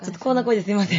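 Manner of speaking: quick apology in a worn-out voice; hoarse voice. Real, not acted. Guest excuses her voice after four-day event, hoarse. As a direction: speak as if the voice has given out. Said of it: "枯れちゃいました".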